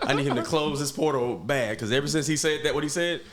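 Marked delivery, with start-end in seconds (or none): 0.0-1.8 laughing through the words. Real, not acted. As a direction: say it while chuckling. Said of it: "repeated through laughter".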